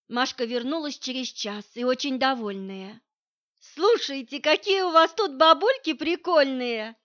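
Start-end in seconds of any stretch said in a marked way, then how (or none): 3.6-6.9 higher, louder delighted telling; delighted exclaim. Acted. Masha returns from the village delighted, excited telling. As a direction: burst in full of glee.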